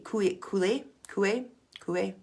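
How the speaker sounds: COOLEY said the French way, koo-ay; French pronunciation. Shown as a demonstration. Hypnosis teacher trying out a French surname, French pronunciation. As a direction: try COOLEY as French koo-AY, lifting the end. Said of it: "I'm using the French language".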